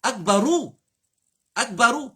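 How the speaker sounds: "Akbaru" ending in a clear u. Shown as a demonstration. Teacher correcting Akbara, clear u on "Akbaru". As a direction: finish "Akbaru" on u, not a. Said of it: "pas exister Akbara".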